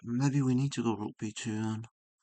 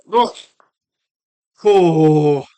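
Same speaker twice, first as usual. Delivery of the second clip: real triumphant shout, much louder and higher; elated yelps of victory; excited; 9 semitones higher, 13 dB louder than usual. Real, not acted. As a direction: burst out in real delight at cracking it. Solving the chess puzzle, triumphant.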